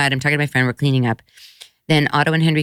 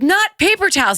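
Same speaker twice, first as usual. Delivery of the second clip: high mock-frantic protest; retold exasperated panic; 13 semitones higher than usual. Mom correcting boys who brought paper, high and frantic. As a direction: pitch it up, imitating a flustered mom.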